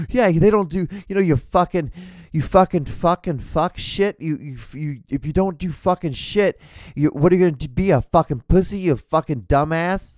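high, loud mock tirade of swearing; hammed-up high shouting rant; mock cussing rant. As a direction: parody an influencer screaming abuse. Imitating cussing ranting influencers.

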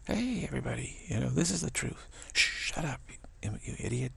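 playfully hammed-up proclamation; mock announcing. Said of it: "mock teacher calling then hushing".

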